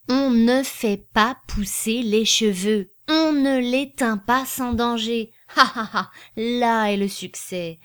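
slow, loud, every syllable measured out; scanned declamation. A narrator's reading. Gaudissart proclaiming the slogan with parliamentary gestures, scanned declamation. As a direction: chant it out like a parliamentary orator. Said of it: "pour prononcer les paroles suivantes qu'il scanda".

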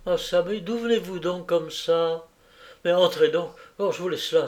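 a kindly landlady fussing with relief; fussy landlady. Acted. Landlady greeting Jacqueline home, gushing relief.

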